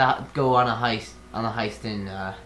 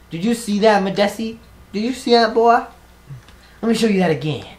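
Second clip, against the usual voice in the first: gloating; 7 semitones higher, 6 dB louder, faster than usual. Real, not acted. Taunting companion after parkour.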